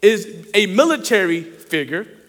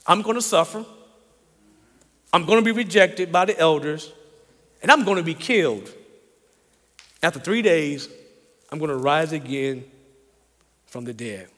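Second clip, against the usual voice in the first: quiet foretelling; 6 semitones lower, 6 dB quieter than usual. Acted. Jesus foretells his death.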